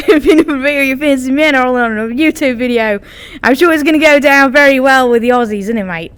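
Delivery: playful mock-Aussie patter; Australian accent. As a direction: keep up the hammed-up Australian accent. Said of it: "talking in an Australian accent".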